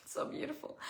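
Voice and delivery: laughing through rising tears; half laughing, half choking up; a real wave of emotion breaking through; teary laugh. Real, not acted. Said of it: "I'm gonna cry".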